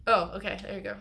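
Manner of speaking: sudden loud relieved oh; surprised relief. Real, not acted. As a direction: lid finally pops off. Lid finally comes off.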